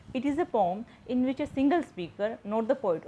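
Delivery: slow, measured reading of a textbook definition; slow dictation reading. Shown as a demonstration. Teacher to students, reading the definition slowly aloud. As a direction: read each English phrase out slowly, as if for notes.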